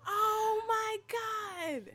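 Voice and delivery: real tears, voice high and strained; choked up with sudden realization; tearful. Real, not acted. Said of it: "I wasn't trying to be crying".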